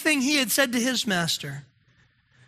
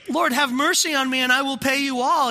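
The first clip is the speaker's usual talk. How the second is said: higher, mildly desperate cry for mercy; desperate plea; 4 semitones higher, 4 dB louder, faster than usual. Acted. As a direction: plead a little urgently, voice lifted. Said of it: "this servant cries out before his Lord".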